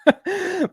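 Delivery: short high burst of laughter; amused high laugh. Real, not acted. Amused by the analyst's empty answer.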